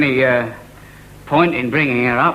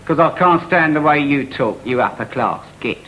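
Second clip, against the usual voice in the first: put-on working class accent; 3 semitones lower than usual. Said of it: "working class accent".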